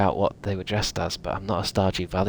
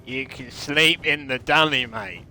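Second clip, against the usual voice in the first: matey put-on Aussie accent; Australian accent. Australian inviting a mate to stay, put-on Aussie accent. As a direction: invite them over in broad Australian. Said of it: "Or other Australian terms".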